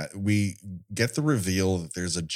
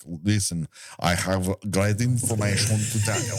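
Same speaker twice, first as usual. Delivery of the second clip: lightly attempted, botched French accent; bad French accent. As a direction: fake a shaky French accent badly. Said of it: "It's a shitty accent".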